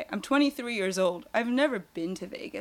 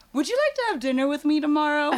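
fast, laughing dinner invite; laughing as she quotes Chris asking her out; laughing retelling; 6 semitones higher, 4 dB louder, faster than usual. Retold or imitated. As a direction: rush the line through laughter.

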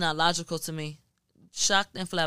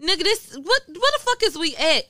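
much higher and louder mock yell; imitating dad yelling; 11 semitones higher, 6 dB louder than usual. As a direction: play the baby's daddy losing it in court. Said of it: "His daddy yelling".

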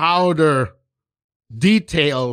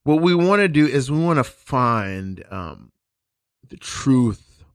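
mock solemn drama coach, slow and grand; pretentious acting teacher; slower than usual. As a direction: play the self-serious improv guru. Pompous acting teachers parody.

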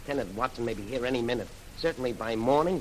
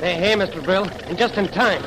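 loud, higher shout of relief; relieved shout; 8 semitones higher, 10 dB louder than usual. Acted. Bob telling Brill the tanks arrived, relieved shout. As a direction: call it out over the noise.

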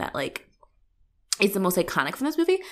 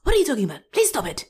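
half-whispered mock plea; hushed pretend plea; 6 semitones higher, much faster than usual. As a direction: whisper it like a scared caller. Mock pleading phone answer.

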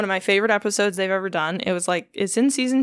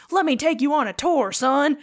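mock ex-inmate; 7 semitones higher than usual. Ex-inmate offers a tour.

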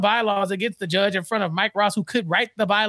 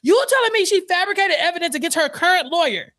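mock disbelief; 8 semitones higher than usual. Speaker as incredulous judge.

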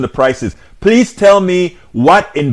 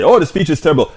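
lightly mocking a dismissive critic; mocking one-word verdict; 2 semitones higher, faster than usual. Host mocking a viewer's lazy one-word verdict, mildly sneering. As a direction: toss it off like a lazy complaint. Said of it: "It's great to give one word state".

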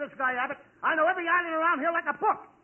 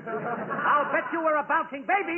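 slower, more emphatic delivery; insistent repeat. Acted. Costello repeating an unheard joke, slow and insistent. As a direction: push the joke out slowly and firmly.

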